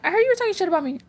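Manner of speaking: high-pitched mocking quote of a rival; imitated girl confronting her. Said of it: "She's like".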